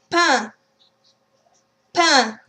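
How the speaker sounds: "Pain" as a nasal pa, no N; don't say the N in "Pain"; nasal ain. Shown as a demonstration. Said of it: "Try a few words".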